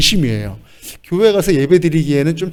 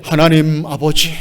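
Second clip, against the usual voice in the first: solemn call. Shown as a demonstration. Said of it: "거룩하게".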